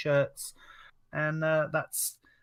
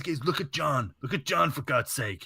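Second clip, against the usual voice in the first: Triple H impression. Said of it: "He actually sounds like Triple H".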